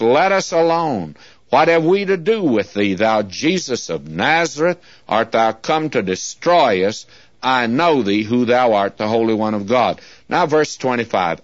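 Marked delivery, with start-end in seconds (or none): 0.0-10.0 scripture reading. Acted. Preacher reading Mark to his listeners, lifted and urgent. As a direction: read the demon's plea with rising urgency. Reads the demon's words from scripture.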